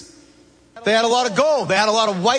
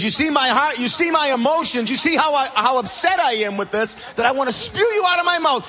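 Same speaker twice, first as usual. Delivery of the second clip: God pleading, upset; 7 semitones higher, faster than usual. Acted. God voiced, upset with church.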